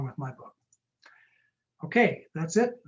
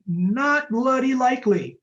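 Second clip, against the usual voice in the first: raised, louder, drawn-out mock Cockney; amateur Cockney, pitched up and slowed down; attempted Cockney accent; 8 semitones higher, 6 dB louder, slower than usual. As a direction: have a go at an emphatic Cockney brush-off. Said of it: "that Cockney accent for me".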